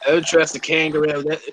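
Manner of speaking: put-on Aussie storyteller; comic Aussie accent; Australian accent. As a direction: warn them in a mock-Australian accent. Comic Australian warning about kangaroos.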